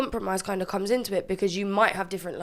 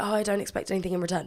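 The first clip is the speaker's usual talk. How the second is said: ordinary talk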